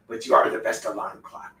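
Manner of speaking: whispered praise to the dog. Real, not acted. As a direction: say it on breath only.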